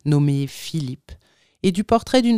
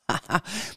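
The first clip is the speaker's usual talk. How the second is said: short, soft acted ha-ha; derisive laugh; 3 semitones higher, 7 dB quieter than usual. A narrator's reading. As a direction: laugh scornfully mid-rant. Furious little man laughs mid-rant.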